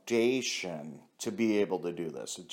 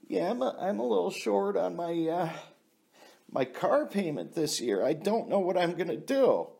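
mock woman voice; 5 semitones higher than usual. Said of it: "She said".

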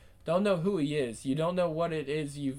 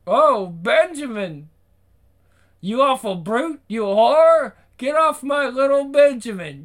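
high, loud shrieking mock old lady; mimicking the dog lady; 9 semitones higher, 11 dB louder than usual. Billy mocks the owner screaming for her dog. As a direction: camp up the hysterical owner.

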